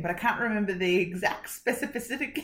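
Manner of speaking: "specificity" garbled into "specifisific"; tongue-tied stumble. Real, not acted. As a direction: trip over the word "specificity", mangling its ending. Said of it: "I can't say that word".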